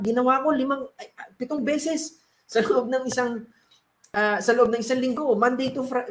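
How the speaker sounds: a dead man grumbling to the Lord; complaining. Acted. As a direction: list your good deeds like an injured complainer. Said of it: "nagreklamo siya".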